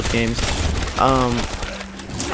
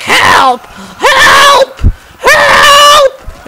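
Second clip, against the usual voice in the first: hammed-up, very high falsetto shriek; mock screaming; 11 dB louder, much slower than usual. Driver calling for help as the cop reaches in, mock scream. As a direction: imitate a panicked man screaming at the top. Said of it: "the dude starts screaming".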